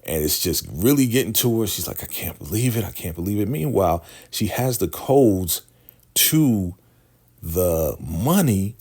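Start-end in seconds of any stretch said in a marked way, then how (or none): 2.0-3.5 high-pitched mock disbelief; cracking up. Lacey tired of being here, mock cracking up. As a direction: lightly act someone losing it, pitched up. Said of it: "She is cracking up".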